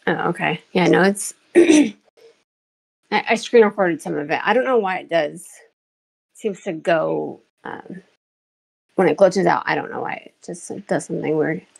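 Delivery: squeaky sped-up filter voice; chipmunk voice. Real, not acted. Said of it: "You sound so good".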